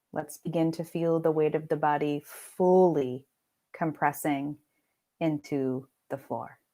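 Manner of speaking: unhurried meditation voice with long pauses; guided meditation. Acted. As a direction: lead them gently into rest, pausing between phrases. Leads guided meditation practice.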